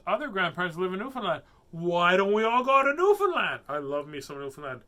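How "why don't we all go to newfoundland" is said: loud, high, climbing cry; playful loud burst of eagerness; excited outburst. Real, not acted. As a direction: shout the idea out with rising enthusiasm. Excited outburst about visiting Newfoundland.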